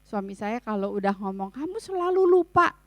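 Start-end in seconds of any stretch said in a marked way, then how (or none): 1.5-2.7 higher, louder acted nagging; irritated spousal complaint; annoyed accusation. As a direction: accuse your spouse in exasperation. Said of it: "kadang-kadang kita kesel ya".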